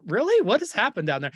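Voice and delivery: a sudden high, incredulous "Really?" then settling back; mock disbelief. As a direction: play it baffled, as if you can't believe what you're hearing. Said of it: "And we're just going".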